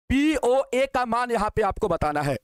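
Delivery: slow, deliberate restatement for the class. Shown as a demonstration. Teacher repeats the question slowly for students. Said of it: "POA का मान यहाँ पे आपको बताना है बाबू".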